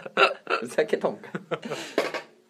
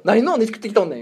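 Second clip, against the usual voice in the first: mock angry retort; 6 semitones higher, 5 dB louder than usual. Acted retort at ear cleaner.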